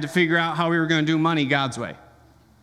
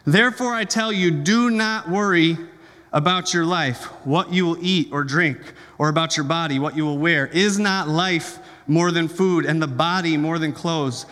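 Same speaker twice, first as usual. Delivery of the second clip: measured, solemn Bible reading; scripture reading. Acted. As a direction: reverent pulpit reading. Reads scripture aloud.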